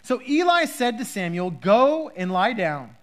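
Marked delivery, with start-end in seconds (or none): 1.5-3.0 slow, a bit louder instruction; calm the boy down like a knowing old priest; gentler Eli. Acted. Eli, now understanding, sends Samuel to bed slowly. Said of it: "a very grumpy voice on Eli".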